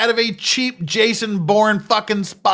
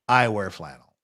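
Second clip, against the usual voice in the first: mock voice; 12 semitones lower, 6 dB quieter than usual. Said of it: "I'm just not a lesbian".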